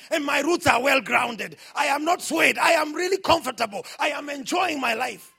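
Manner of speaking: forceful preaching. Real, not acted. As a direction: declare it firmly to the congregation. Preaches declarations to congregation.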